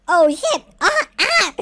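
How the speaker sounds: loud, high startled cries; panicked yelps. Real, not acted. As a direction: yelp as danger hits in the game. Sudden danger in the game.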